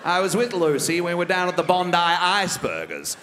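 a lightly voiced smug, refined politician; Malcolm Turnbull impression. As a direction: savour every word like a self-satisfied rich man. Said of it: "Malcolm Turnbull impersonation".

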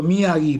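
Miyagi said mi-A-gui, with a hard g; correct pronunciation. Shown as a demonstration. Guest confirms to the host how his surname is said, correct pronunciation. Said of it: "muy bien pronunciado".

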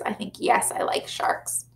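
soft unvoiced whisper; whispered aside. Real, not acted. Teacher telling the children her answer in a whisper. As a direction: confide it in a hush. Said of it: "teacher's confiding aside".

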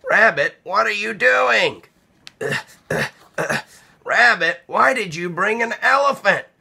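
a fretting little mouse calling out; Mouse's voice. Acted.

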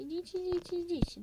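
loud high call to come. Real, not acted. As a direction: call them over to eat. Calling animals to eat.

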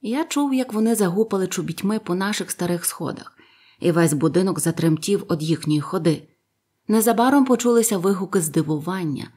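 usual speaking voice

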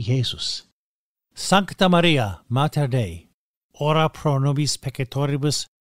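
steady, devout recitation of the prayer. Acted. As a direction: pray it evenly, as at Mass. Recites Ave Maria.

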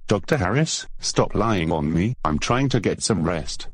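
sing-song parroting, rising on the name; mocking copycat voice. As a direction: echo it back teasingly. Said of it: "you copying me".

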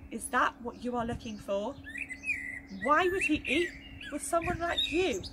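put-on lively storytelling for children; story narration. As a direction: tell it to the little ones with wonder. Reading a Bible story to children.

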